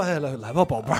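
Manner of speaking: coaxing. Retold or imitated. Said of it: "我一般都说".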